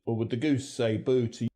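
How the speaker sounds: Cockney accent, "goose" pulled back. Shown as a demonstration. Presenter demonstrating vowels, in Cockney. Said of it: "which has quite a back pronunciation".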